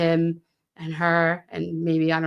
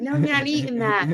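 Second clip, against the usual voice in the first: mock stern big sister, higher; bossing the little ones around; bossy big sister; 7 semitones higher than usual. Big sister telling siblings no, mock stern.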